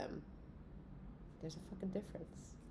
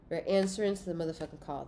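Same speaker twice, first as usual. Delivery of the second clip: faster; 3 dB louder, faster than usual. Shown as a demonstration. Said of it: "That's the title of the reading".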